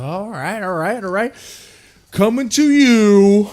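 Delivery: hammed-up reveal announcer. Blizzard announcing Diablo Immortal on stage, hammed-up showman.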